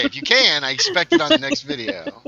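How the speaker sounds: put-on high, loud old prospector voice. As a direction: holler it like a crusty old prospector. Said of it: "Get that old prospector voice going".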